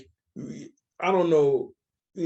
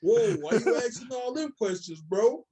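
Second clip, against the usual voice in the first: mock tough guy; 5 semitones higher than usual. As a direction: bark it like a guy squaring up. Acted street confrontation quote.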